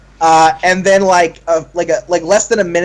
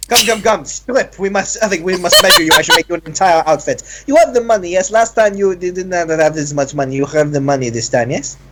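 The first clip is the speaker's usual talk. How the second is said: flamboyant tailor. Acted. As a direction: fuss over the client grandly. Tailor measuring client.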